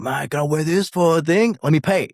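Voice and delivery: lightly voiced star, keen and humble; Jon Jones voice. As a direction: voice the champ asking to pay.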